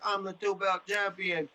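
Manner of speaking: lightly voiced sneering impression of a fighter boasting; mocking Connor. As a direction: parody a braggart who lost, dragging it out. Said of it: "you're running around like".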